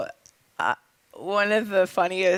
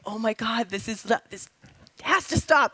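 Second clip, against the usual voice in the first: exasperated retold panic, jumping higher at the end; mock freak-out; 3 semitones higher than usual. Actress retelling her inner freak-out over watering eyes, mock panicked. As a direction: replay an inner panic, pitch leaping late. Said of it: "internally I'm freaking out, going".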